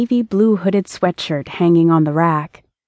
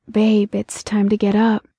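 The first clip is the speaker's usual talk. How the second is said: sweet murmur; 2 semitones higher than usual. A narrator's reading. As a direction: gently wake a lover. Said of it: "muttered sweetly".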